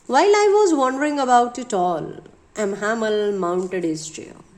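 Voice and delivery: slow, measured reading; deliberate textbook read-aloud, word by word; read-aloud lesson text. A narrator's reading. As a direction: read it out slowly for a class.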